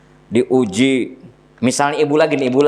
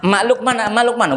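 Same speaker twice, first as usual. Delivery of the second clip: put-on child calling for mum; 6 semitones higher, faster than usual. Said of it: "gitu ngomongnya".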